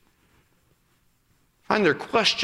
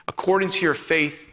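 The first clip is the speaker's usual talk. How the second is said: hushed blessing; 2 semitones lower than usual. Acted. Pastor blessing the congregation with the verse, hushed and slow.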